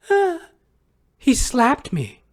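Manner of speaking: high, slow mock whimper; mock high whine. Vlogger mocking her account of the slap in a high whine.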